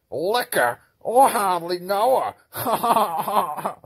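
high, laughing through the punchline; laughing joke. Acted. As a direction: crack up at your own pun.

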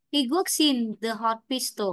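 "he works in the hospital" with "works" and "in" run together, no break; linked words. Shown as a demonstration. Teacher models linking a final consonant into the next vowel. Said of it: "những cái chỗ này thì chúng ta phải cân nổi nhé".

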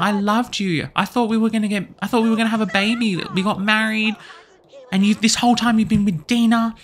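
the betrayed wife pouring out her hurt; high loud heartbroken rant. Acted. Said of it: "Cassandra's absolutely heartbroken".

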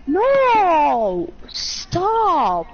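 loud panicked yell; panicked shout. Real, not acted. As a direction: yell at them to stop.

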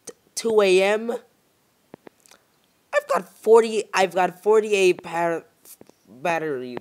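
high, loud panicked squeal, drawn out; panicked shriek. Real, not acted. Gamer shrieking in panic at a dying flashlight. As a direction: stretch it out in disbelieving panic. Shocked at battery and time.

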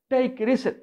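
English said with a Spanish accent, tapped r. Shown as a demonstration. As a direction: joke English in a Latin American Spanish accent. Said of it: "suena casi lo mismo".

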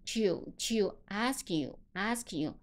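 "ask you" linked without a gap; linked sounds. Shown as a demonstration. Teacher showing sounds joining, linked "ask you". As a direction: run "ask you" together as one unit. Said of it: "我们都知道这个D和U在这".

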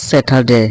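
"স্যাটারডে" as commonly misread, short final de; old mistaken pronunciation. Shown as a demonstration. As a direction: say "স্যাটারডে" with a short, unglided last vowel. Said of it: "আসলে এটা স্যাটারডে না".

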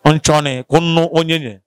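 "Nchone ko no onyenye" said slowly and carefully, syllable by syllable; slow "Nchone ko no onyenye" down so the listener catches each word. Shown as a demonstration. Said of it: "say it again".

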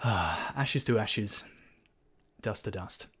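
slow, grave burial words; solemn funeral rite. Pretend. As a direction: intone it like a priest.

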